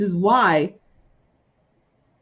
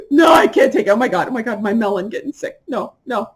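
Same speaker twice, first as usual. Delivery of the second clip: imitating crying sister; 3 semitones higher, faster than usual. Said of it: "then she started crying".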